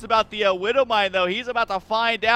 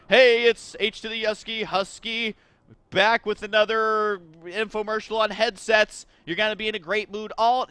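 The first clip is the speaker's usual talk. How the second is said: infomercial; 2 semitones higher than usual. Acted. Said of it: "it doesn't have the same pizzazz".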